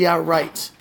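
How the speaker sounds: low, dismissive sarcasm; sarcastic. Real, not acted. Doubting that the grip was only dropped, sarcastic. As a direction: brush it off in open disbelief. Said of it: "I'm sorry for the sarcasm".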